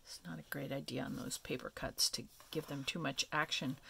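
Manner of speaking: quick whispered aside; whispering. Real, not acted. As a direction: drop to a hushed whisper. Aside to the camera.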